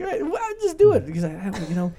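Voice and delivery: high, sing-song mock Alaskan accent. A local giving permission, in a mock Alaskan accent. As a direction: put on a hammed-up Alaskan accent. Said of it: "That's a great Alaskan accent".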